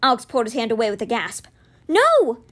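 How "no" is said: loud, high cry of No; anguished cry. A narrator's reading. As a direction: cry out as something is lost. Gasps as creature vanishes.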